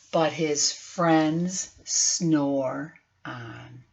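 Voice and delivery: very slow, soft fading line; sleepy ending. A narrator's reading. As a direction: let it drift off to sleep. Final refrain very slow.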